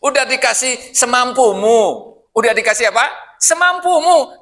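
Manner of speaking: teasing the congregation, laughing; amused emphasis. Real, not acted. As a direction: lean into it, amused. Mocking the spoiled request.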